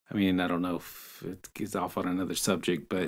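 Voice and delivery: hushed, unvoiced whisper. Real, not acted. Telling friend about the assault story, whispered. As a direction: drop to a whisper before the hard part.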